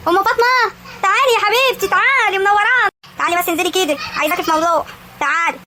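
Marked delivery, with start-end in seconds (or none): 0.1-2.9 effusive welcome. Acted. Hostess calling her visiting friend inside, effusively welcoming.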